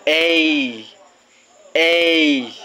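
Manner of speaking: put-on "A" as a long vowel, left open for kids to echo; long A for repeating. Shown as a demonstration. Teacher leads kids in repeating long A. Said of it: "Please repeat after me".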